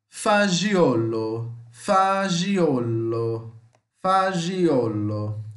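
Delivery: Fagiolo said slowly, fa-djo-lo, stress on the second-to-last syllable; Italian pronunciation demo. Shown as a demonstration. Teacher repeats Fagiolo slowly for his students. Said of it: "Prestem atenção nas minhas pronúncias".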